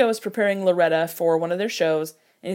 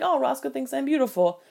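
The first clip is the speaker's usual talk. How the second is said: higher-pitched, lightly voiced flattered reaction; a touch of acted sweetness; mock touched; 6 semitones higher than usual. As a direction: imitate someone slightly moved by a compliment. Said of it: "she's slightly touched".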